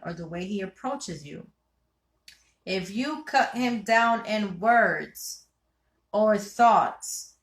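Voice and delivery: measured read-aloud from a book. Real, not acted. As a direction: read the passage out with deliberate emphasis. Reads a passage aloud.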